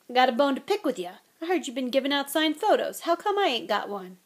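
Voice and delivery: fast, teasing gruff giant; a hint of a big gamekeeper; Hagrid voice. Hagrid's voice in the story.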